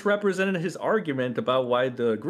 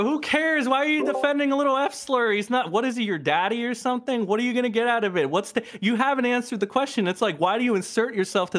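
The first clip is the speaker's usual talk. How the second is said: much higher pitched, heated shout at his rival; angry outburst; 8 semitones higher than usual. Real, not acted. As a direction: fire questions at him, pitch way up.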